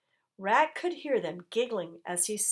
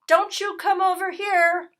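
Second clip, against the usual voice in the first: loud, higher, hostile bark; barked warning; 11 semitones higher, 9 dB louder than usual. A narrator's reading. Dog warning the rat off, barking loud. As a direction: shout him off your side. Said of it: "barked Dog".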